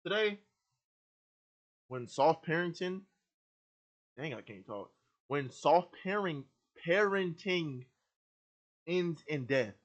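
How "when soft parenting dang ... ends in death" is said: talking with gum in mouth; words round a piece of gum; chewing gum. Real, not acted. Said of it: "I just got gum in my mouth".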